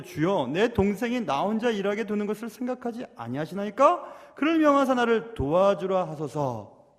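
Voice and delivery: measured scripture reading with a plea; mild, formal appeal to the Lord; complaint read from scripture. Acted. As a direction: read the verse formally, drawing out the final plea. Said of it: "이렇게 예수님께 불평하고 있습니다".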